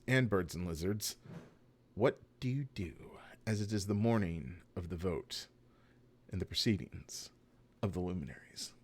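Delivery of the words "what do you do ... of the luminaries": hushed, low scene opener; soft, suspenseful narration trailing downward; game master scene setting. A narrator's reading. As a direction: pose the question softly, with pauses.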